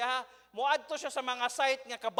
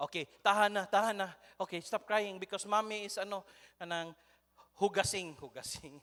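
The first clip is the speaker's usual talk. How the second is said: soothing parent; 2 semitones lower than usual. Retold or imitated. Parent soothing crying baby, retold.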